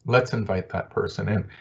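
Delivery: a soft afterthought echo. Shown as a demonstration. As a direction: let it land gently the second time. Repeats the suggestion for emphasis.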